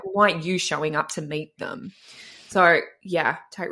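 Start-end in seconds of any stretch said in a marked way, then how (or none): 0.0-1.9 pointed retort. Shown as a demonstration.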